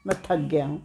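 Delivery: soft, low, tired plea; weary pleading. Acted. Beaten simpleton begs the hunter to stop, weary pleading. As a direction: beg feebly to be spared.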